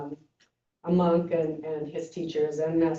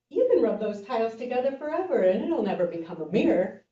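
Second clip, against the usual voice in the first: monk objecting; 4 semitones higher than usual. Retold or imitated. Monk scolds teacher.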